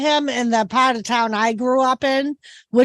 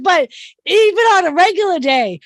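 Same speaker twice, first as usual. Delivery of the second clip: excited retelling; 3 semitones higher than usual. Retold or imitated. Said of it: "I'm like".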